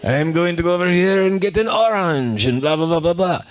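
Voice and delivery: high, hammed-up cartoon salt shaker voice; Mister Salt voice. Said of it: "And he's like".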